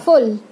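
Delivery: फुल with a quick, short oo; rapid short u. Shown as a demonstration. Teacher models the small u, फुल said short and quick. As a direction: keep the u of फुल brief. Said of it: "rapid pronounce करना है".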